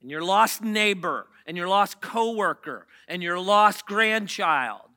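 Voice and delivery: talking around a sucker; words round a candy in the mouth; sucking a lollipop. Real, not acted. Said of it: "I have a sucker in my mouth".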